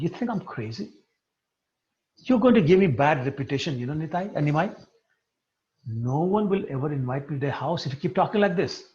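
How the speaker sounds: mildly indignant, lightly acted; a touch of hammed-up grievance; indignant protest. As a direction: protest the accusation with mock offence. Acted indignant protest in retold quarrel.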